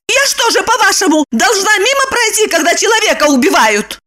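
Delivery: high, indignant shout; Lipochka shouting. A narrator's reading. Lipochka shouting at Roman in vexation. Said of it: "топнула ногой и закричала".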